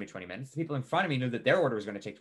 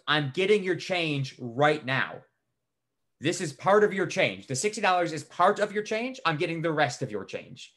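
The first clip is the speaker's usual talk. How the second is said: emphatic, pitch climbing as the point is repeated; exasperated insistence; 3 semitones higher than usual. Retold or imitated. Cashier arguing with customer over change, exasperated and insistent. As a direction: spell it out to a difficult customer.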